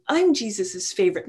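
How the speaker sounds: first claim in a mock squabble; lightly boastful, staking the claim; mild bickering boast. One disciple arguing with another, mild boast. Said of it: "his disciples when they were arguing".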